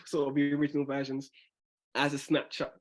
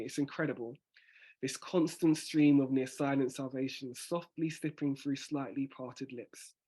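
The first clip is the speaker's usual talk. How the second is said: final revised recital. Shown as a demonstration. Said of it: "hopefully that sounds better to you".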